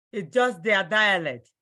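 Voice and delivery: ordinary talk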